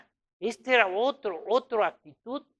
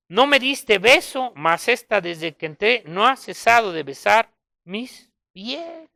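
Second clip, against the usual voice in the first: loud Jesus quote; 7 dB louder than usual. Acted.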